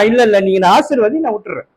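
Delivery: Jacob refusing to let the angel go, low and insistent; stubborn pleading Jacob. Retold or imitated. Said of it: "அவன் என்னன்றா?".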